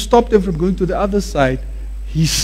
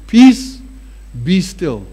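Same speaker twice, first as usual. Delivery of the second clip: peace lifted, be still dropped; demo command; slower than usual. Shown as a demonstration. Preacher showing the congregation how to say peace be still. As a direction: demonstrate the calm command. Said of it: "I'm gonna show you something".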